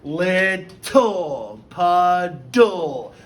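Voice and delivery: "Little" and "puddle" said smoothly, no stop between syllables; blended syllables. Shown as a demonstration. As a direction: run "Little" together without stopping. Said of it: "notice how I kinda say it together".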